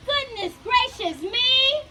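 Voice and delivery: a lightly voiced worried hen. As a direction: exclaim like a flustered hen. Hen Hattie voiced in story.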